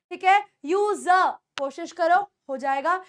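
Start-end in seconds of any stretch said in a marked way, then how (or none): 0.6-1.3 यूजर said as "yoo-zuh", no r; silent R. Shown as a demonstration. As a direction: drop the final r of यूजर. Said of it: "आर को silent कर सकते हो". (यूजर में आर silent, "यूज़ा")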